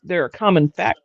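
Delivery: speaking through hiccups; words broken by a hiccup. Real, not acted. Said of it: "I have the hiccups".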